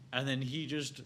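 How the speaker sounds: giggling at the absurd scene; laughing. Real, not acted. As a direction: crack up while telling it. Laughing while describing gross scene.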